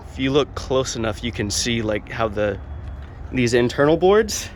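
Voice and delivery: talking while up on a ladder; balancing up a ladder as you speak. Real, not acted. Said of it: "sorry, I'm on a ladder".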